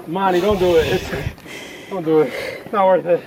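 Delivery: loud joking call from above; shouting. Real, not acted. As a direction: yell down to a friend. Calling down to friend.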